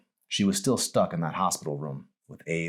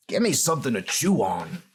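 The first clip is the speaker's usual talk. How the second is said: lightly voiced old man, wistful; a hint of a worn old patient looking back; mild old-man voice, rueful; old dying man; 7 semitones higher, 3 dB louder than usual. Abe voiced.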